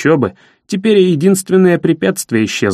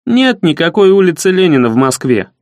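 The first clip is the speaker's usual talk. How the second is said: firm and calm. Acted. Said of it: "твёрдо и спокойно сказал я".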